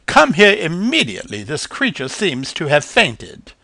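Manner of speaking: high, loud urgent lady bird; urgent call. A narrator's reading. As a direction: call them over in a hurry. Marigold calls the others urgently.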